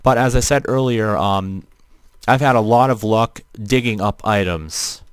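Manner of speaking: flat robotic voice filter. Real, not acted. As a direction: talk through a robot voice changer. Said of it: "you're questioning why my voice sounds robotic".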